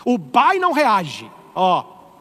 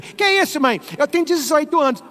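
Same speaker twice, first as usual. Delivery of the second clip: mock teen; 6 semitones higher than usual. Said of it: "Não tem independência de".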